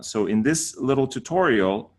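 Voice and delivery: usual speaking voice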